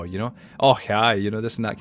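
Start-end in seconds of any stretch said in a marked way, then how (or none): 0.6-1.1 imitating a very broad Scottish accent; loud, braw mock-Scottish greeting; broad Scots. Father's friends talking among Scots, imitated broad Scottish accent. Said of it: "they sound very braw".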